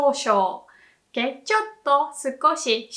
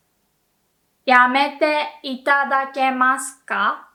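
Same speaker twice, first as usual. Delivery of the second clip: polite request; 4 dB louder than usual. Shown as a demonstration. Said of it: "Less polite".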